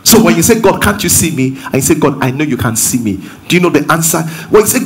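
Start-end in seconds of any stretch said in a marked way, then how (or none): 0.6-1.6 mildly pleading, questioning prayer; doubting question to God. Shown as a demonstration. Preacher demonstrates the wrong question to God, mildly doubting. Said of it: "One is going to bring you fear". 2.0-3.2 lower, settled statement of trust; assured. Shown as a demonstration. Preacher demonstrates the right words to God, assured. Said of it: "one will bring you assurance".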